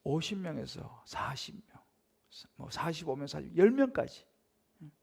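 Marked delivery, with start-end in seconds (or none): 0.0-3.5 slow whisper. Real, not acted. Recounting God's bargaining down.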